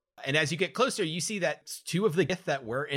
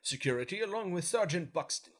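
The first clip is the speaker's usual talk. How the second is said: lightly voiced lady officer; a hint of the prim soldier; female Gith voice; 5 semitones higher than usual. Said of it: "Petty Officer Lenora says".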